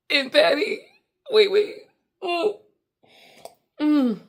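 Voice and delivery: very high, laughing and breaking up. Real, not acted. Losing it to her friend Patty, laughing. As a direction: lose it laughing.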